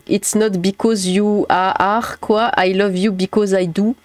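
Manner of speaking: lightly put-on French accent in English; a singer's French-accented English. Quoting a singer's song after teasing about English accent, French-accented English. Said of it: "J'ai l'impression d'entendre Renaud".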